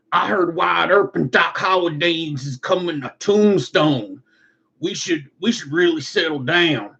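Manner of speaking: a goofy outlaw plotting; cowboy skit voice. Pretend.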